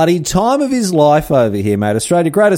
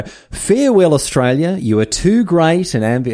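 higher, stately reading of the diary; reading Darwin's farewell; 6 semitones higher than usual. Acted. Host reads Darwin's farewell to Australia aloud, in a mock solemn higher voice. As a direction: read it like a grand parting speech. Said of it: "here we go".

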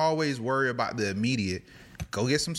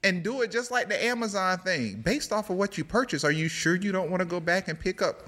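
higher, chirpy store robot; robot cashier; 7 semitones higher than usual. Acted. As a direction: upsell like a friendly checkout robot. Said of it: "I want at least two robot cashiers".

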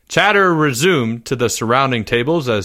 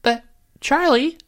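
put-on very high, whimpering boy; squeaky, upset pleading; tearful plea; 14 semitones higher than usual. A narrator's reading. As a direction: beg on the verge of tears. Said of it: "Jeffrey's eyes began to water".

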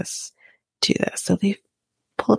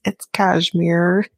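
quoting Sean; much slower than usual. Retold or imitated. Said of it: "And he says".

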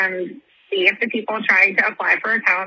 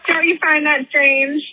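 incredulous excitement; 5 semitones higher, slower than usual. Retold or imitated. Retelling her own rising disbelief.

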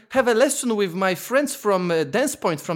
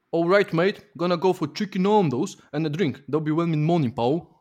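loosely imitated Mancunian; attempted Manchester accent; 3 semitones lower than usual. Contestant performs accent for the guessers, attempted Mancunian. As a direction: have an unconvincing go at Manchester. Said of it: "Another point for Neil is Manchester".

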